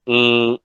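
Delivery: ई said through the nose, nasalised; nasal i. Shown as a demonstration. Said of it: "ई मैं नासिका के साथ बोलूं". (नासिका के साथ बोला गया ई)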